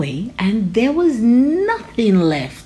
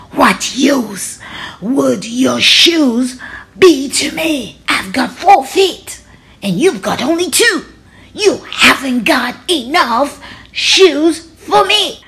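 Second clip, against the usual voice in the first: louder, slow, scornful tiger; scoffing tiger; 5 semitones higher, 5 dB louder, slower than usual. Acted. Tiger scorning Rajani's shoes, loud and slow. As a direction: sneer slowly and loudly at the offer.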